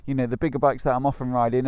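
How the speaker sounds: muffled through a helmet visor; talking from inside a motorcycle helmet. Real, not acted. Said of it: "you'll have to excuse the helmet today".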